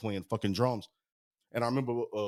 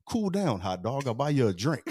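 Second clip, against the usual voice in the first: imitating a laid-back, unbothered guy; cool it down like nothing happened; calm cool guy; 3 semitones higher than usual. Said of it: "he was so cool".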